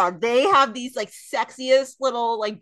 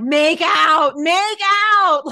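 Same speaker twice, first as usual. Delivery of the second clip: louder, higher yell at the TV; mock screaming; 6 semitones higher, 8 dB louder, much slower than usual. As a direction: imitate screaming urgently at a screen. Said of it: "like, screaming at my T V".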